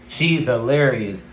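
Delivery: "She's hilarious" slow and emphatic; emphatic praise. Real, not acted. Podcaster repeats praise of a favorite character, emphatic.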